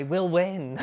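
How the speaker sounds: giggling through the words; laughing. Real, not acted. Laughing after joke.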